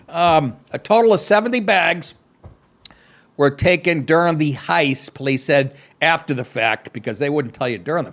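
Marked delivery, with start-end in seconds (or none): 0.7-6.9 mock anchor reading the story; deadpan read of the news copy. Host reading the heist story to listeners, mock news read.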